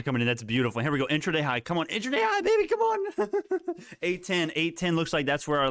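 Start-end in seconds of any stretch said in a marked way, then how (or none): 1.9-4.0 excited cheer into laugh. Real, not acted. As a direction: cheer it on, then giggle. Stock hits intraday high.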